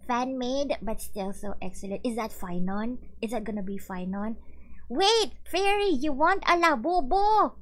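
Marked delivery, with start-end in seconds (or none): 4.9-7.5 loud, high-pitched astonished question; shocked disbelief. Real, not acted. Streamer to a viewer who wants a Labubu, loudly incredulous. Stunned that Fairy wants one.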